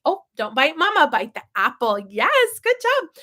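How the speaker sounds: firm don't bite, then a high bright good job; simple toddler talk. Shown as a demonstration. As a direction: redirect him, then praise high. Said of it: "but say".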